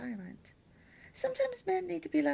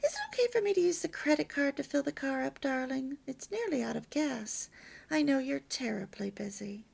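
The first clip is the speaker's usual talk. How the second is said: gentle request; 3 semitones higher than usual. Shown as a demonstration. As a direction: ask him nicely, then hush.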